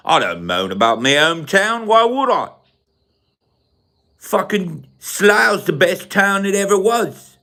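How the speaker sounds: hammed-up English local-pride accent; put-on English accent, swooping pitch; mock British accent. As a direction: boast in an exaggerated Slough accent. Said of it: "We talk like this".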